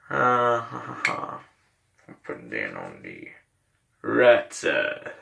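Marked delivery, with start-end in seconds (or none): 2.1-5.1 talking around a fresh dip; words slurred by tobacco in lip; chewing tobacco. Real, not acted. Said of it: "we gotta pack a lip first".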